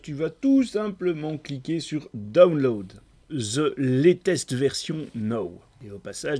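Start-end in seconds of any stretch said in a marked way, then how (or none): 2.1-5.6 slow, careful English accent on "The Latest Version Now". Real, not acted. A French tutor reads out the button label in an English accent. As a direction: spell out the English words slowly in an English accent. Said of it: "un pouce pour mon accent".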